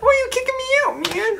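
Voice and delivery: high, cracking yell; failed yell. Acted. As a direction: let the voice squeak up. Player repeating failed yell.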